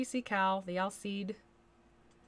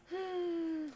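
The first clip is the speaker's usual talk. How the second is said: high, drawn-out sigh; a long voiced sigh; 10 semitones higher than usual. Real, not acted. Reacting to talk of sweet cider, long sigh.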